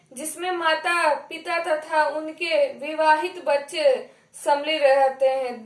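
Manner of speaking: unhurried dictation to a class; slow dictation. Real, not acted. Teacher reading a definition for students to write, slowly. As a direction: read it out slowly to be copied. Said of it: "मैं धीरे धीरे बोलूंगी".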